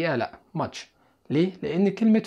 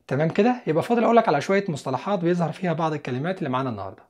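ordinary talk

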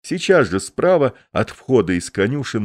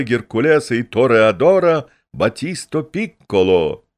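booming circus ringmaster; 5 semitones higher, 4 dB louder than usual. Acted. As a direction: bellow it to the crowd like a ringmaster. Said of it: "на плохом, но очень уверенном английском языке он объявляет публике".

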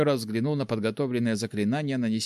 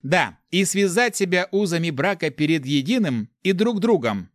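raised, ringing repeat of the vow; solemn, emphatic wedding formula; proclaimed vow; 6 semitones higher, 4 dB louder than usual. A narrator's reading. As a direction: announce it firmly after being prompted. Repeats prompted vow out loud.

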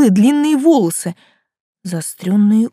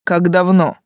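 stern. Acted. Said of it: "строго уточнил он".

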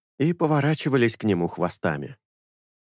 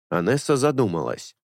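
ordinary delivery, nothing marked

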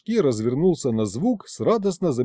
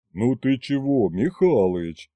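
offended. A narrator's reading. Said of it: "обиделся Мороз".

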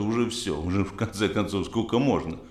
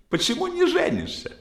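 put-on high girl voice. Bachelor imitating young women.

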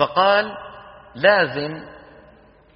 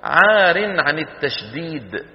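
عار عن التشديد drawn out word by word; slow deliberate reading; much slower than usual. Shown as a demonstration. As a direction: spell out the definition slowly. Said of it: "ثم قالوا في التعريف". (قراءة متأنية للتعريف)

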